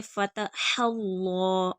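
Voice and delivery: फ़तहल्लाह slow, throaty ह and heavy ल्ला; full lam. Shown as a demonstration. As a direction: darken and hold the ल्ला of फ़तहल्लाह. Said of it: "लाम पुर पढ़ा जाएगा". (फ़तहल्लाह, लाम पुर)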